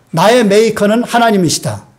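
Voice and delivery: call-and-response phrase; repeat-after-me line. Shown as a demonstration. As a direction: lead the congregation through it line by line. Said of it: "한번 따라해 보실까요?".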